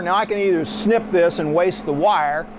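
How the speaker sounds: usual speaking voice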